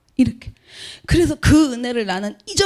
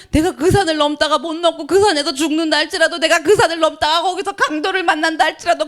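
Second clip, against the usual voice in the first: fervent preaching; 4 semitones higher than usual. Shown as a demonstration. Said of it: "다시 해드릴까요?".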